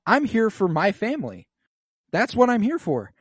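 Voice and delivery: high, loud, fast declaration; queen declaring loyalty to family, hammed up; brash bro queen. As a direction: say it like a defiant buddy. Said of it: "she's like".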